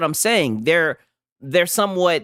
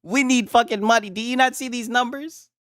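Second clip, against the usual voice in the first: mock executive; 5 semitones higher than usual. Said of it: "They'd be like".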